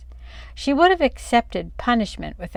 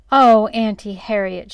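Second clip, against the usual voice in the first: louder tearful cry; a distressed girl crying to her aunt; 2 semitones higher, 8 dB louder than usual. A narrator's reading. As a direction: wail her aunt's name. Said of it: "she cried".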